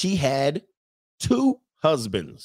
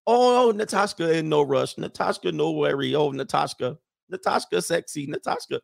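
put-on Natasha's accent; 3 semitones higher than usual. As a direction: coo it in her imitated accent. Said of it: "in her accent".

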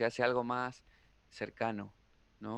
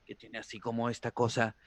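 lightly imitated maestro; a hint of a mimicked guru; Jodorowsky. Comedian showing how they imitate a teacher, light impression. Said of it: "Voy a hablar como Jodorowsky".

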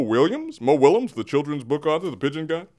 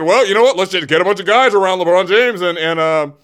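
imitating Rob Pelinka; 3 semitones higher than usual. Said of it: "And so Rob Pelinka said".

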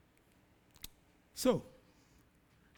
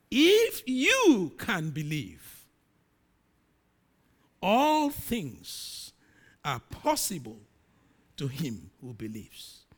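solemn voice of Jesus; 3 semitones lower, 3 dB louder, much slower than usual. Acted. Jesus answers the father.

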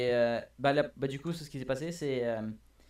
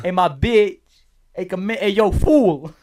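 shouted, higher hey yo; hammed-up shouted greeting; loud mock greeting; 7 semitones higher, 14 dB louder, slower than usual. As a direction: bellow it like a hype man.

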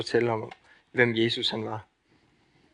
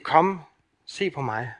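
tender Jesus voice; 3 semitones higher, 5 dB quieter than usual. Acted. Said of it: "Han siger".

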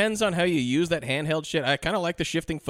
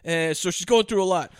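raised New York cop voice; Mark Ruffalo; 4 semitones higher than usual. Retold or imitated. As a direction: rattle on in a mock New York accent. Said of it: "He's so New Yorkie".

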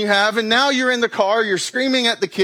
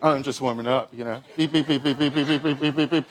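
lower, softer mock-casual voice; casual treadmill pretence; 6 semitones lower, 3 dB quieter, faster than usual. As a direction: pretend to be just warming up. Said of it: "I'm like".

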